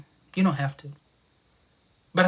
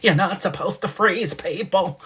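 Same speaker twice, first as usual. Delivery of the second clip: Uncle Arthur voice; 2 semitones higher, 4 dB louder than usual. Retold or imitated. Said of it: "sound like Uncle Arthur".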